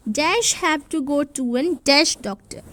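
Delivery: slow, each word laid out, saying dash for the gaps; slow read with blanks. Shown as a demonstration. Teacher reads the fill-in sentence to children, slow and deliberate. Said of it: "अब इधर हमें दो चीज़ों में से लिखना है".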